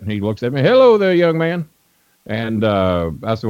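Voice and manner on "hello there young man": much higher put-on old promoter voice; imitating Nick Gulas. Old promoter greeting a young fan, high imitated voice. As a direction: play the old wrestling boss greeting a stranger, pitched way up. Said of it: "That, that's kinda how he talked".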